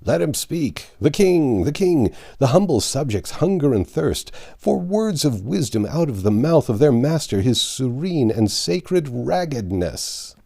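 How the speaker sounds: a jeering crowd mocking a ragged king; mocking crowd shouts. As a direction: heckle him like a sneering mob. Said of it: "shouts of".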